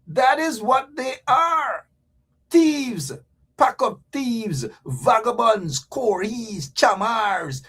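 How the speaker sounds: slow shouted accusation; angry shout. Real, not acted. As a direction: hammer it home in anger. Heated political rant, shouting.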